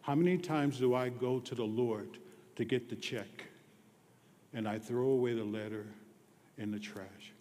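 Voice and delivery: usual speaking voice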